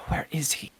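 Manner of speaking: frustrated whisper through teeth; through gritted teeth. Acted. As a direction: hiss it, annoyed and hushed. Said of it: "kinda almost through her teeth".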